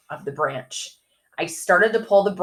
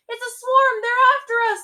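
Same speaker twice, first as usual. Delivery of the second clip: panicked. A narrator's reading. Fleeing bees, panicked.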